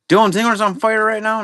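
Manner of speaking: surprised. Real, not acted. Surprise at a card pull.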